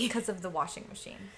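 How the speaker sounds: hushed whisper. Real, not acted. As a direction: whisper it under the noise. Whispers about the sink noise.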